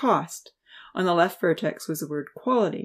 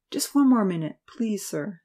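begging; 4 semitones higher than usual. Acted. Student begging the busy professor for a minute, lightly pleading. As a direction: ask gently for one more minute. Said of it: "Seth begged".

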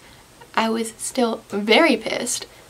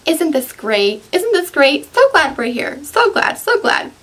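sarcastic; 4 semitones higher than usual. Retold or imitated. Mocking sarcastic cheer on slope.

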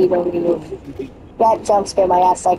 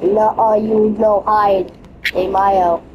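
mock Mexican accent; slower than usual. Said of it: "I'm doing Mexican accent".

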